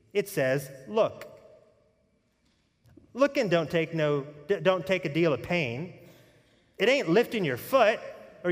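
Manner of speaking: a hint of a rural English lay preacher's accent, growing into impassioned calling. Pastor voicing the uneducated country preacher who converted Spurgeon, rough rural English accent. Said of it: "I want to preach this in his accent".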